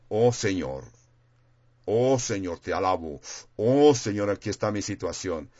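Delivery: just tell Him plainly and gently; calm simple prayer. Retold or imitated. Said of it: "sino simplemente le digo".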